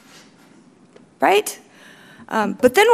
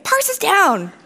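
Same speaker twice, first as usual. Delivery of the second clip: higher-pitched mock alarm; complaining user; 6 semitones higher, slower than usual. User writing in every day to complain, mock alarm. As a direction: imitate a user reporting an outage.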